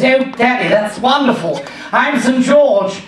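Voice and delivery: mock-wonder little English boy; delighted son. Son thrilled to learn his name's origin, mock delight. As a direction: gush to Daddy, drawing out the last phrase.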